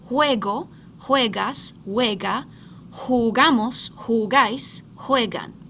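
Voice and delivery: each form of jugar said slowly and clearly, with juego, juegas, juega, juegan opening on a clear ue; careful Spanish pronunciation. Shown as a demonstration. Teacher models jugar forms for students, clear careful pronunciation. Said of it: "listen carefully to the pronunciation".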